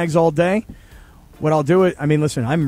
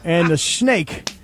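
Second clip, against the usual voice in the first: Southern drawl. Acted. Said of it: "I've been saying it like this".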